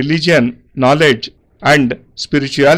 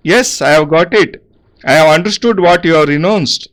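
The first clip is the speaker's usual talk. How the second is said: crying out. Acted. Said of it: "The barber cried out".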